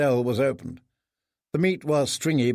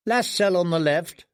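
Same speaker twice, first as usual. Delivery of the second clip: put-on boy's reply; 4 semitones higher than usual. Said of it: "another boy replied".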